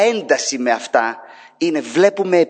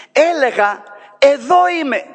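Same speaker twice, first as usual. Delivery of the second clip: high, louder calling out "εδώ είμαι"; God calling out; 10 semitones higher, 4 dB louder than usual. Acted. God answering an unheeding people, high calling voice. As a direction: call out, I'm right here. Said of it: "Ο Κύριος λέει".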